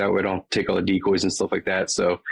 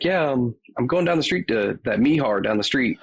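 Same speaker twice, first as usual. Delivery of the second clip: lightly higher North Carolina twang; imitated Southern twang; 5 semitones higher than usual. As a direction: quote wife in her Southern twang. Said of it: "a thick, thick twang".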